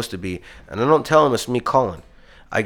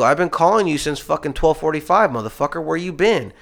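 retold angry demand; 6 semitones higher than usual. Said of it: "I go".

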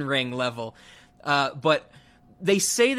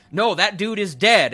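a touch louder, insisting; mock old husband; 4 semitones higher, 5 dB louder than usual. Podcaster quoting the husband's argument, mild mock insisting. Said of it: "there's even that bit where he's like".

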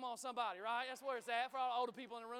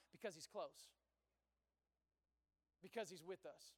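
hushed and close; 6 semitones lower, 7 dB quieter than usual. Acted. God whispers because he's close.

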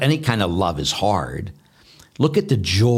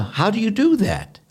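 much higher, wondering question; amazed; 11 semitones higher than usual. Retold or imitated. Priest voicing sisters asking Mother Teresa, amazed. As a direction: ask in sheer amazement. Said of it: "and they says".

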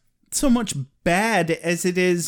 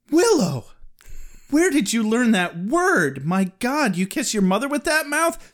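quoting the scene; 5 semitones higher than usual. Retold or imitated. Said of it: "So she's like".

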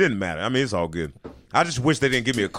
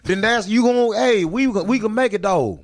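higher, slow, hammed-up pledge; mock heartfelt husband; 6 semitones higher, slower than usual. Husband vowing to stay with his partner, higher and slow. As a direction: plead your love, half laughing. Acting the husband's tearful acceptance.

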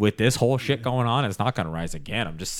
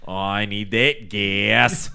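slow, drawn-out mock Boston accent; mock Bostonian accent; 3 semitones lower, much slower than usual. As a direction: stretch it out like a half Boston accent. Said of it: "what is he, fucking Bostonian?".

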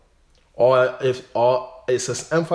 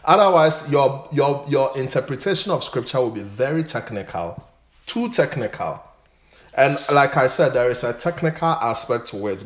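higher and louder, pressing the warning; fervent preaching; 4 semitones higher, 6 dB louder than usual. Real, not acted. Pastor warning listeners against technical study, loud. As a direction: preach it with full conviction.

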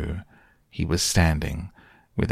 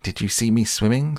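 higher, eager little squeak; excited squeak; 5 semitones higher than usual. Acted. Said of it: "squeaked Roo excitedly".

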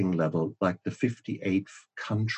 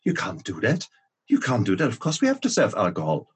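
mock outrage; faster than usual. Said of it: "And the mom loses it and says".

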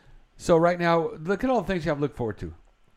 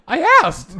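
mock matter-of-fact; 12 dB louder than usual. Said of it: "she goes".

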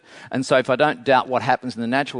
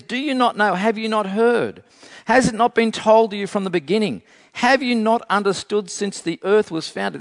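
higher-pitched run of pressing questions; insistent questioning; 5 semitones higher than usual. Acted. Isaiah challenging listeners with question after question, insistent. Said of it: "question after question after question. It's building and building".

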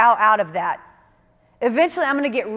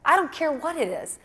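soft surrender prayer; 2 semitones lower, 6 dB quieter than usual. Retold or imitated. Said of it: "I'm like".

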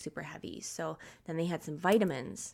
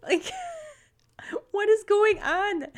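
much higher, louder disbelieving cry; exasperated outburst; 12 dB louder than usual. Retold or imitated. Mom in the car as her kids throw up, exasperated loud cry. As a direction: blurt it out, fed up and half laughing. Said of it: "I actually said it out loud".

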